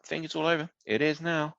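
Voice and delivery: understated, deadpan commentary delivery. Retold or imitated. Host imitating the commentator's understated tone, deadpan. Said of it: "it's quite deadpan".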